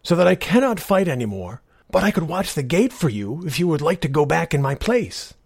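a tired knight offering help; wounded knight. Acted.

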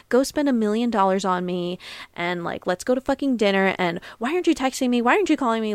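high, whiny mock demands, speeding up; mock demanding girlfriend. Mocking the demanding girl she says she isn't, high and rushed. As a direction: parody a needy date, pitch up and rush. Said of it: "I'm not that bitch that's like".

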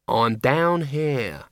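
slow, reproachful from below. Acted. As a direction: chide him gently, slowly. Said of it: "said a reproachful voice".

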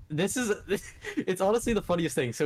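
laughter bubbling through words; giggling as he tells it; laughing while talking. Real, not acted. Tells the funniest thing, laughing.

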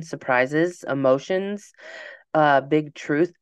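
wheezing through the words, short of air; wheezy voice. Real, not acted. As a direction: speak with a wheeze in the chest. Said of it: "I'm wheezing".

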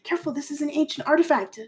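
put-on a fussy young scholar sighing over his work; hint of a stressed-out academic; Hasno the nervous scholar. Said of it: "and Hasno's like".

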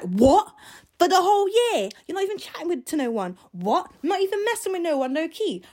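high, loud incredulous questions; imitating his stunned reaction; shocked disbelief. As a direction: mimic a guy who can't believe what he's hearing. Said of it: "Like, just absolutely surprised".

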